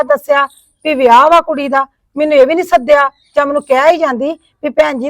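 loud, bitter grievance about the sister-in-law; aggrieved rant at being left out of the wedding; angry complaint. Acted. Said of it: "ਇੰਨਾ ਨਾ ਗੁੱਸਾ ਕਰੋ".

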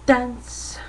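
breathy whispered word. Real, not acted. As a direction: whisper it to yourself.

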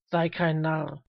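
put-on firm call from an old man. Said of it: "rief der alte Mann".

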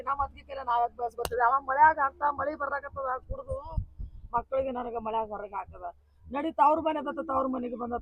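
wife telling the neighbour how she was thrown out; tearful lament. Acted. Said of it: "ಅಳ್ಬೇಡ, ಅಳ್ಬೇಡ".

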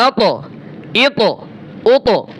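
"আত, এত, ও তো", each ত bouncing into an echo; echoing qalqalah. Shown as a demonstration. Teacher drilling the letter to, "আত, এত, ও তো" with qalqalah echo. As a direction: release every ত with a short rebound. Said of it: "এই যে পাল্টা একটা আওয়াজ আসে".

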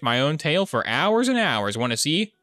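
hammed-up talking dog; pretend dog. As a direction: bark like a playful dog begging for fetch. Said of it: "I'm a dog".

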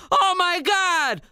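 high, drawn-out shriek without much volume; hammed-up high-pitched mom scream. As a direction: cry out in mock horror. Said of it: "the mom screamed".

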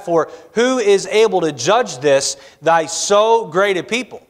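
measured formal reading of King James scripture. Acted. Preacher reading scripture to the church, formal and measured. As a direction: read it out as holy writ to the congregation.

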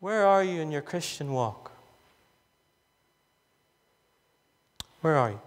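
low, earnest appeal; honest, alongside you. Acted. Preacher drawing alongside a listener, honest low appeal. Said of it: "draw alongside you this evening and honestly say to you".

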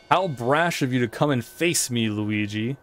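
lightly voiced gloating ghost king; a hint of a smug villain; King Boo voice. Voices King Boo's dialogue.

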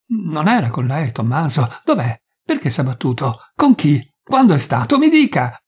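the wife demanding answers in rising panic; building frantic demand. Acted. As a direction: push harder with each question. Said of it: "più smaniosa".

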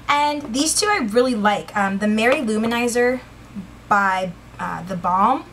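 winded, breathing hard between words. Real, not acted. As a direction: talk while short of breath. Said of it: "Sorry, I'm really winded".

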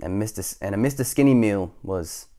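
animated storybook reading; lively, measured telling of the tale; story narration. A narrator's reading. Reader telling children about Mister Skinny, storybook narration.

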